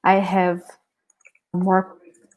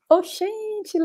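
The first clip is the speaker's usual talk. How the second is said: giggling through a repeated quote; laughing; 12 semitones higher, 5 dB quieter than usual. Real, not acted. Amused teacher laughing while repeating a student's phrase. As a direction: laugh as you echo the phrase. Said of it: "I'm laughing because".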